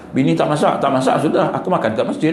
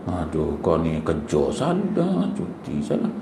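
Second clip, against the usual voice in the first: weary sigh; 11 semitones lower, 8 dB quieter, slower than usual. Retold or imitated. Husband exasperated at nagging wife.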